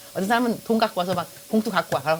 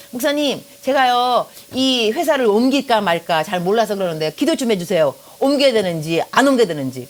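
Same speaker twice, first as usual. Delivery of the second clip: put-on higher, louder imploring voice of a young woman; pleading church sister; 4 semitones higher, 5 dB louder than usual. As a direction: beg the pastor earnestly. (목사님께 기도를 조르는 자매의 간청)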